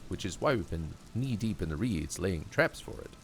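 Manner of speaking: lightly voiced keen scientist; earnest cryptozoologist. Cryptozoologist telling officer about the Phasmid, lightly voiced earnest scholar. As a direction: explain it with a touch of scholarly relish.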